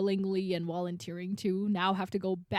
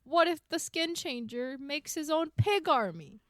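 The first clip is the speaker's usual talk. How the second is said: raised, fretful mock objection; mock complaining; 4 semitones higher than usual. Host mimicking free folk objecting to woods nearby, mock complaining. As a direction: voice the worry high and exaggerated. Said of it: "Everything they complain about".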